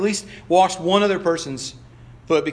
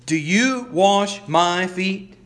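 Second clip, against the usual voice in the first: stunned disciple asking Lord; Peter protesting; much slower than usual. Acted. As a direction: ask it slowly, in disbelief. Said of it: "and said to him".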